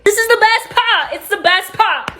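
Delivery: high, giggly excitement breaking into a laugh; can barely hold the laugh in; giddy, laughing. Real, not acted. Teller reaching the best part of her story, giddy and laughing.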